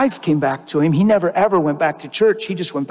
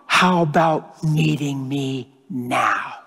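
voice of the Lord; 4 semitones lower, much slower than usual. Retold or imitated. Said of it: "and the Lord said".

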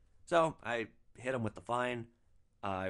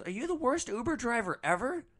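high put-on accusing voice; indignant drunk passenger; 11 semitones higher than usual. Drunk passenger tossing the bag at his driver, high mock indignation. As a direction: throw the insult in a high mock whine.

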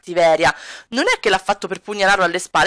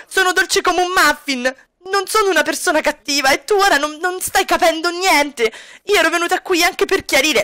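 put-on higher, upset young woman pleading; pleading girlfriend, higher pitched; Kami's voice; 7 semitones higher than usual. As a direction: argue back, hurt and defensive. Kami arguing with Edo, voiced.

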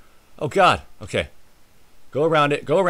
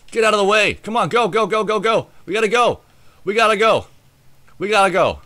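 urgent; 5 semitones higher, faster than usual. Real, not acted. Being chased, urging on.

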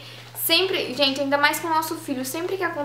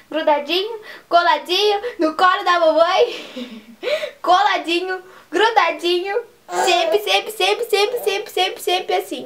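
higher, tender sing-song with a laugh; cooing sing-song; 4 semitones higher than usual. Pretend. Mother coos to her baby about cuddling, sing-song. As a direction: coo the words to a baby in your arms.

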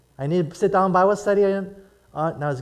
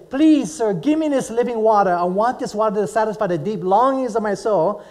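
pleading woman; 3 semitones higher than usual. Retold or imitated. Preacher voicing the woman begging Jesus for water. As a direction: beg for the living water.

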